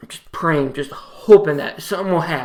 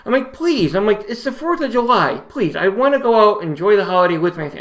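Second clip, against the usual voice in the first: higher, begging to go home; patient begging the doctor, voice pitched up; upset pleading; 5 semitones higher than usual. Retold or imitated. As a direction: plead to leave for the holiday. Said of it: "I'm so upset".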